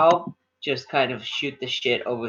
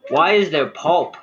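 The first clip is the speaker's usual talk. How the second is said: louder, higher, revolted at the drink; disgusted complaint; 6 semitones higher, 6 dB louder than usual. Acted. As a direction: gag at it and complain. Kyle grimaces at the ale.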